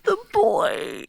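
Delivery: high, delighted cry; excited cheer. Pretend. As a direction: greet the lost companion with joy. Players cheer the returned character.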